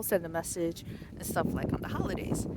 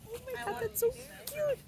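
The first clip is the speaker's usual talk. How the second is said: gushing delight. Retold or imitated. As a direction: gush over something adorable. Seeing her card on his tree.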